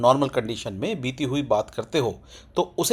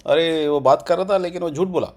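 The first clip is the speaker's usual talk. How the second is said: conversational telling; 2 semitones higher than usual. Shown as a demonstration. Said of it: "इस type से बोलते हैं उसको".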